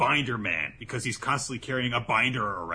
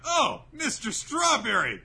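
teasing; 11 semitones higher, 4 dB louder, slower than usual. Retold or imitated. Shinobu teasing Rindo.

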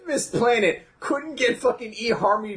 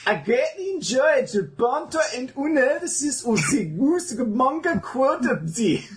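mock Swedish reading; 6 semitones higher than usual. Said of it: "a Swedish accent of English words".

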